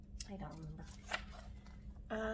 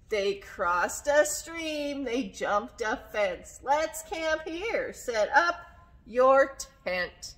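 put-on story reading to children; 8 dB louder, much slower than usual. A narrator's reading. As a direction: punch each character's word, then drop for the name. Reads a story aloud.

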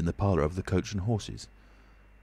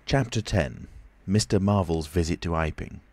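ordinary delivery

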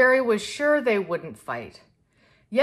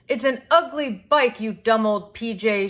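angry yell; 3 semitones higher than usual. Acted. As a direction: yell it at him like a hurt little girl. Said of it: "she yelled".

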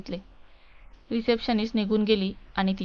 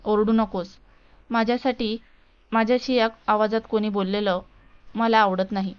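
mild shout. Acted. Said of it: "शिवसुद्धा त्याच आवाजात ओरडला".

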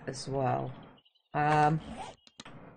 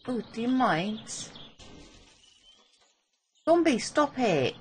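exasperated yell; 9 semitones higher than usual. Real, not acted. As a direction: snap at the zombie to quit. Yelling at a zombie.

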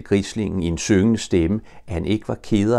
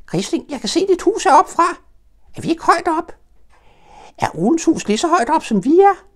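put-on very high, loud eager child voice; a small child thrilled to be stuck high up; excited little Roo; 5 dB louder than usual. Roo chatters down to Pooh and Piglet, very high and eager.

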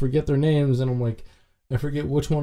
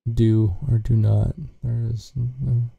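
Yoda quote; slower than usual. Retold or imitated. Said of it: "that's the character I've made".

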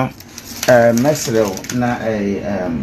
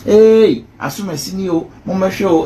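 mock calling out; 7 semitones higher than usual. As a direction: shout it out like a gossip drawing a crowd. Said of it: "Ɔmo pɛ ne sɛ yɛbɛte sɛ".

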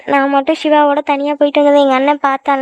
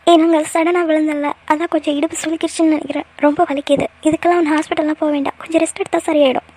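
quietly tearful. Acted. Injured girl tells the stranger her back hurts, softly tearful. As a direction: speak through pain, holding back tears. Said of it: "அழுகுறீங்களே".

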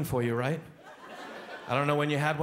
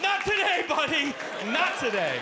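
cocky taunt; 12 semitones higher, slower than usual. Retold or imitated. Comic safe upstairs taunts the imagined intruder, cocky. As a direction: gloat from safety.

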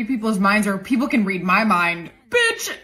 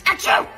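fake sneeze. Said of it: "it was a sneeze".

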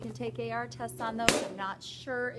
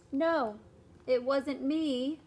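higher, louder slow denial; denying kid; 3 semitones higher, 4 dB louder, slower than usual. Acted. David denying to mom, high and loud. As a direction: deny everything.

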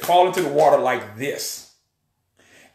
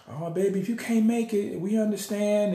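gentle mom voice; 5 semitones higher, 4 dB quieter than usual. Retold or imitated. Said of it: "being a typical mom".

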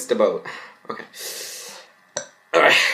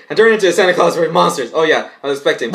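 rushed confession; 5 semitones higher, 4 dB louder, faster than usual. Acted. Mavis blurts her confession.

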